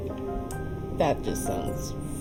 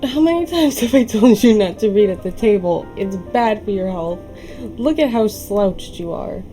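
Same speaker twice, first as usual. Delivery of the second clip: louder nagging mother voice; scolding mom; 5 dB louder than usual. Acted. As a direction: nag the kid about the table. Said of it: "mom scolding, translated".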